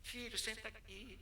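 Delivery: suave e devagar, voz de acolhimento; com carinho. Retold or imitated. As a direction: fala mansa de pastor consolando. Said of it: "eu trato o maior carinho". (tom carinhoso e baixo)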